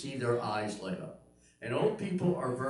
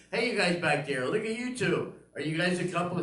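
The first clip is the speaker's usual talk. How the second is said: higher, raised call to the back; calling out teasingly; 5 semitones higher than usual. Retold or imitated. Comedian hails couple making out at the back, calling out. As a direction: playfully hail someone across the room.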